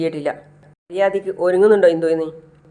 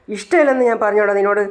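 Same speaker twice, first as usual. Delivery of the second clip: choked, pitched-up tearful plea; mock sob, higher and strained; crying; 4 semitones higher than usual. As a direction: voice breaking as he admits it. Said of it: "എന്ന് പറഞ്ഞ് കരയാണ്".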